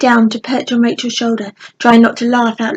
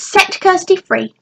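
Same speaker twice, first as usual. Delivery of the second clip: higher, slow and firm; shouted command; 8 semitones higher than usual. A narrator's reading. Rachel ordering the goblins to free Kirsty. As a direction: demand it through the door. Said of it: "she shouted to the goblins".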